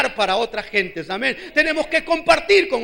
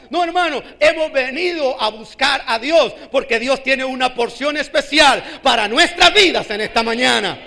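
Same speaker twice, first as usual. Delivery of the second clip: insistent preacher, leaning on key words; forceful preaching; 5 dB louder than usual. Real, not acted. Preacher telling the church they came to seek God, forceful preaching. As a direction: press the point on the congregation with force.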